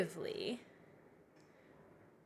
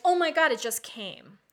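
excited; 4 semitones higher, 9 dB louder than usual. Retold or imitated. Acting out sudden realization.

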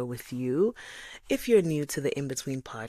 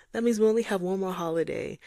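mock lament; 6 semitones higher, 5 dB louder, faster than usual. Sighing lament.

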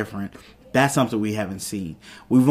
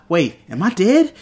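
startled question; 7 semitones higher, 4 dB louder than usual. Retold or imitated. Retold character's alarmed realisation.

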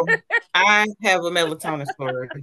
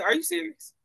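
high, startled "Are you serious?"; high-pitched stunned question to the poison control lady; shocked disbelief; 12 semitones higher than usual. Retold or imitated. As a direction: ask it in sudden shocked surprise. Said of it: "I said".

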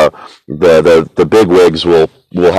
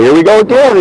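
mock Michigan fan groan; 14 semitones higher, 3 dB louder than usual. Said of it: "you go".

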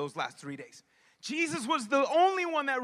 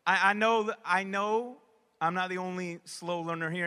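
ordinary delivery

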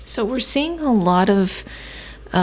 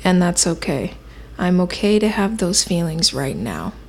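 affirmation. Shown as a demonstration. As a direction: speak kindly to yourself, unhurried. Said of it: "repeat after me".

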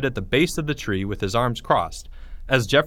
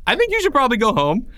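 laughing; 11 semitones higher, 5 dB louder, faster than usual. Real, not acted. Host breaks up laughing.

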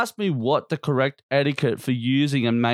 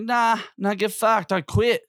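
much higher, cocky mock voice; high defiant quitting; 10 semitones higher than usual. Quitting the job, retold.

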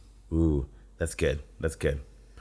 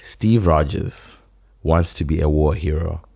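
soft storytelling voice; 4 semitones lower than usual. Shown as a demonstration. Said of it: "in my soft, deep storytelling voice".

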